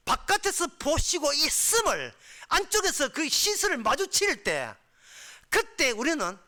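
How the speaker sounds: high, loud sermon delivery; impassioned preaching. Acted. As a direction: preach at full force in surging bursts. Preaches at full force.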